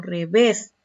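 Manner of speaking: revés with weight on VÉS; stress on last syllable. Shown as a demonstration. Teacher asking how it's pronounced, final syllable of revés stressed. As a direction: lean on the ending of revés, re-VÉS. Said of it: "¿Dónde está la mayor fuerza de voz?".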